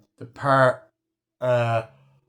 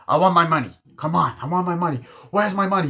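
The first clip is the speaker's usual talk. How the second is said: high, pushy demands in imitation; irritating nagging; 6 semitones higher, 5 dB louder, faster than usual. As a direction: pester like a film character owed cash. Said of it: "the guy's just being fucking irritating".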